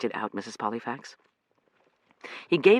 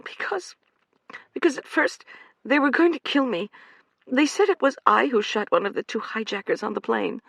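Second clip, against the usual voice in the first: high, tearful woman's voice, raised; angry young woman; 11 semitones higher than usual. Acted. Amanda defending herself to Omar, angry and high. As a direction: fling it back at him. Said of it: "said angrily".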